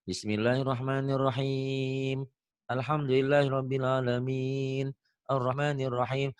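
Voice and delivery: slow chanted Quran with every ending held long; imitated over-long Quran recitation; imitating drawn-out recitation. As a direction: mimic a student who lengthens all the endings. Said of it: "dipikir ini juga sama".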